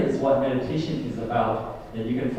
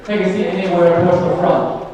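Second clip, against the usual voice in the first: announcer; 5 semitones higher, 8 dB louder than usual. Real, not acted. Ushering crowd by loudspeaker.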